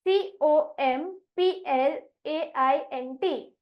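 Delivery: each letter of सीओएमपीएलएआईएनटी spaced apart; slow spelling. Shown as a demonstration. Teacher spelling the word for pupils, slow and deliberate. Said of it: "अब अगला शब्द है".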